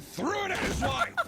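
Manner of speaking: laughing. Real, not acted. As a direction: crack up while reading it out. Narrator cracks up at the story.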